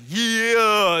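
loud, high, drawn-out yeah; big imitated kid's cheer; excited kid. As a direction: imitate a thrilled daughter agreeing. Daughter accepts the deal eagerly.

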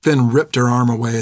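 plain reading voice

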